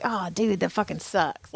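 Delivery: soft, sympathetic mutter to a stranger; quietly feeling for someone pulled over; sympathetic aside. Retold or imitated. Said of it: "I sometimes say it out loud".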